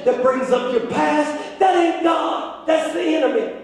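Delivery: strong, projected pulpit voice; insistent sermon delivery with punched phrases; emphatic preaching. Acted. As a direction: drive each point home to the congregation. Preaches to congregation.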